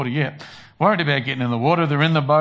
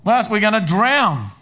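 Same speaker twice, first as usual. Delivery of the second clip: high, loud panicked cry for help; panicked disciples; 7 semitones higher, 5 dB louder, slower than usual. Retold or imitated. Disciples panicking in the storm, high frantic cry. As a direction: cry out like men about to drown. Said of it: "everybody starts panicking and they go".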